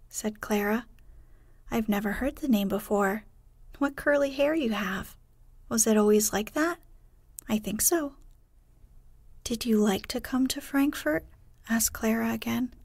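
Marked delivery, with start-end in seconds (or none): 1.7-11.2 put-on lightly raised, eager girl; a hint of a curious little girl; young girl voice. Clara chats eagerly with Heidi.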